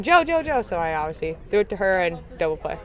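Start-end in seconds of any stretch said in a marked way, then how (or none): 0.0-0.6 imitated yell. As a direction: imitate a teammate calling out for the ball. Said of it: "I heard Parker yelling".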